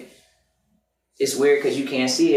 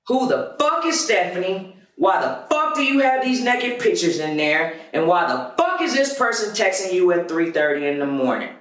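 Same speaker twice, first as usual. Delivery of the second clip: confronting; 5 semitones higher than usual. Retold or imitated. Confronting girlfriend in stairwell.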